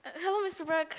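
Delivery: soft, hesitant hello; shy greeting. Acted. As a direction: say it softly, caught off guard. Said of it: "I would walk with great dignity".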